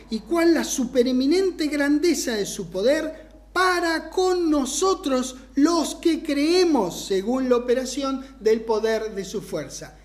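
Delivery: verse read in one continuous sweep; quick read-through. Real, not acted. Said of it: "lo dije medio rapidito".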